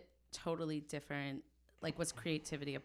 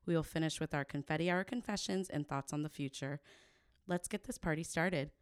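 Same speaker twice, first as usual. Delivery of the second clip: polished host introduction; smooth scripted welcome; podcast intro read. Acted. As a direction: introduce the guest to listeners.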